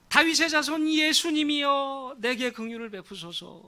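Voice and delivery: a long, slow, high plea; crying out. Acted. Blind beggar crying out to Jesus, slow high plea. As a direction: drag out the cry to the passing Jesus. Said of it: "고래고래 소리를 질렀습니다".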